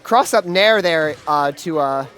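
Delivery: lively esports caster call; play-by-play commentary. Acted. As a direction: call the action as it happens. Live play-by-play of the match.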